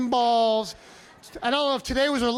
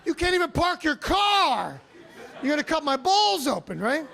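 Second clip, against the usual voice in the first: mock panic; 5 semitones higher than usual. Panicked retort to clumsy doctor.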